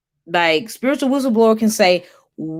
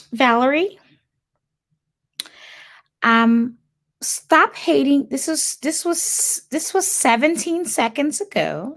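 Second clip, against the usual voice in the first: high, put-on white girl voice; 5 semitones higher than usual. Reading a viewer's comment aloud on a livestream, in a mock white girl voice. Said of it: "in my white girl accent".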